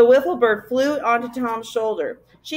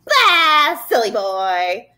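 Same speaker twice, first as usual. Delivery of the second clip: taunting creature; 5 dB louder, much slower than usual. A narrator's reading. Gaboon taunting a boy up close, jeering. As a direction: blurt it right in his face, dragging the end. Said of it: "pushed its face close to Tom".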